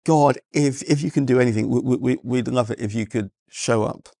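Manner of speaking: a pastor's hesitant half-hearted opening prayer; mock timid pastor prayer. Pastor opening the service, mock hesitant prayer. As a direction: mimic a wavering preacher who barely hopes. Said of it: "begins the whole thing with".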